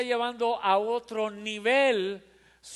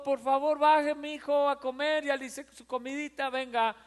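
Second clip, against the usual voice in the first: sweet coaxing mother; 4 semitones higher than usual. Retold or imitated. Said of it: "Ya no es el chiquito".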